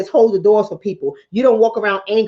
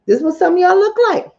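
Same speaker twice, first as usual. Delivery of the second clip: mock angry face; 8 semitones higher, 3 dB louder than usual. Shown as a demonstration.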